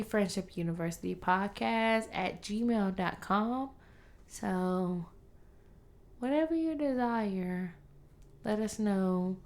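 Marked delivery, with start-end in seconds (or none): 4.3-9.4 faint and fading out; trailing off like a ghost; fading away. Real, not acted. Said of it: "Why do you sound like a ghost?".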